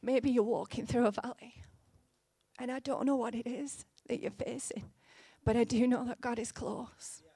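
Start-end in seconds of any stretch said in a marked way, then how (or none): none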